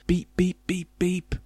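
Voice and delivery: high, even electronic beeps; high-pitched robot beeping. A narrator's reading. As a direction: beep like a car computer. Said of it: "said the car in a robot voice".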